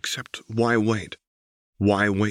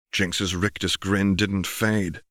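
usual speaking voice

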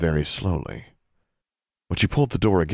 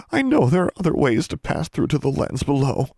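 put-on higher, louder girl pleading; 9 semitones higher, 4 dB louder than usual. A narrator's reading. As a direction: press him in a high young girl's voice. Darla pleads with John.

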